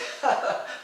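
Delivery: short breathy imitation of a laugh; imitated laugh. Teacher laughing at his scared student, imitated chuckle. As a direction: laugh like an amused teacher, briefly. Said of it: "And he's laughing".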